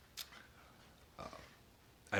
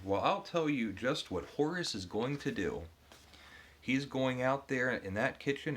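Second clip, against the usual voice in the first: higher, louder, gushing servant voice, stretching each promise; boastful male maid; 5 semitones higher, 4 dB louder than usual. Acted. Reader voicing the bragging male maid to the wife, higher and louder. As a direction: oversell every promise like an eager servant. Reading Horace's boastful speech aloud.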